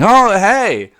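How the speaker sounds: lightly imitated pushy pop star; a hint of an over-eager self-promoter; a pop singer. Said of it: "like, FaceTiming fans and going".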